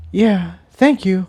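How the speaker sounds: high, tender confession; lightly voiced mare, sincere; voiced mare confessing. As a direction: Tiptoe confessing love to Jigsaw. Character voice.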